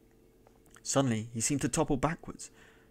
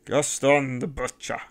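slow, loud, higher shout; mad shout; 3 semitones higher, 8 dB louder than usual. A narrator's reading. Host kicks the dead bandit, slow mocking shout. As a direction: jeer over the body at full voice. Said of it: "he shouted".

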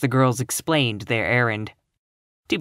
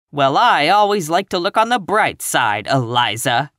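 optimistic protest; 3 semitones higher, 5 dB louder than usual. Acted. Catherine countering dour Eliza, optimistic. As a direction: speak up for optimism, pitched up.

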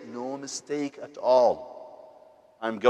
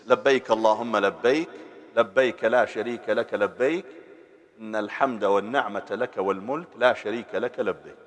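recited talbiyah; 2 semitones lower, much faster than usual. Shown as a demonstration. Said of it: "The Talbiyah in Arabic is this".

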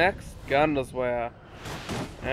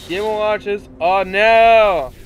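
Bowser voice; 3 semitones higher, 3 dB louder, slower than usual. Pretend. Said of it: "So I'm doing Bowser voice".

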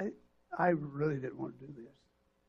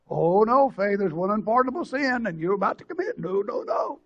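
mock stern warning; 4 semitones higher, 7 dB louder than usual. Mocking a harsh condemning answer.

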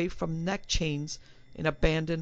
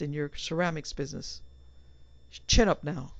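self pep talk. Acted. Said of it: "To himself he said".

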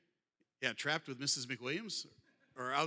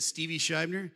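mock hiss; 6 dB louder than usual. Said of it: "she hissed this in my ear".

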